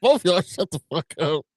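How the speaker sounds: high, whiny mock Irish, then a snapped shut up; hammed-up Irish whine; mock Irish argument. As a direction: parody the two Irish women bickering. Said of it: "I was like".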